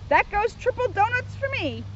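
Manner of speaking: high, goofy Shaggy voice; lightly voiced goofy teen. A narrator's reading. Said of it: "said Shaggy".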